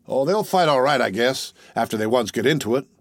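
mild cool appraisal; cold judgment. Acted. Tall soldier judging the regiment for the youth, mildly cool. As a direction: weigh it coolly. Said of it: "with cold judgment".

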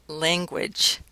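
"language" with the vowel of "lane"; last contrast, "language" said like "laingwidge"; long-a pronunciation. Shown as a demonstration. Lecturer comparing options for listeners, "language" with the lane vowel. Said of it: "a, language".

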